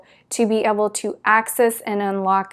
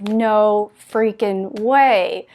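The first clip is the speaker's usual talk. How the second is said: slow, drawn-out amazed disbelief; blown away; much slower than usual. Retold or imitated. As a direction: stretch each word in mild astonishment. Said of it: "I was just blown away".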